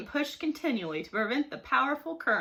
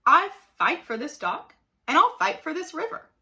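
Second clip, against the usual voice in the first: defiant roar, louder and rising higher; 5 semitones higher, 6 dB louder than usual. A narrator's reading. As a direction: roar out the vow to fight. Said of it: "roared Mark".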